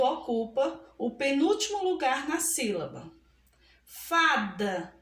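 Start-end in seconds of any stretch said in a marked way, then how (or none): 3.8-4.9 "Fada" low, with a long, strong Fa; teacher's weighted Fa in "Fada"; stressed first syllable. Shown as a demonstration. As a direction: lean on Fa in "Fada", let da drop. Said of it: "pronunciamos com mais força".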